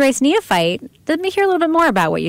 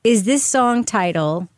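game show announcer. Acted. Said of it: "a little Name That Tune style game".

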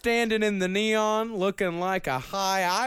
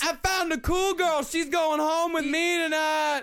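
bro voice; 12 semitones higher than usual. Pretend. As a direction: brag to your buddies. Bro showing off girl.

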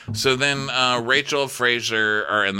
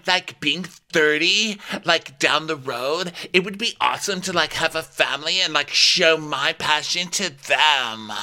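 mock dreamy rookie; 6 semitones higher than usual. Mocking Katie's dreamy goal.

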